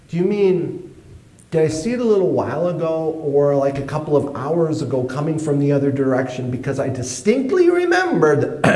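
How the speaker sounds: rising, babbling innocent excuses; flustered excuses. Retold or imitated. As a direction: stall nervously, voice climbing. Teen stalling with excuses.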